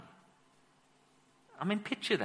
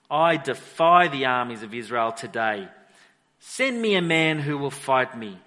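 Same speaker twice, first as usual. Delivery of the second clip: loud taunt; 3 semitones lower, 7 dB louder than usual. Acted. Goliath's taunt read aloud.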